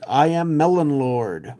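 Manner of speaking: grand boastful proclamation; hammy villain voice. Acted. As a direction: announce yourself like a silly warlord. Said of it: "And the quote is".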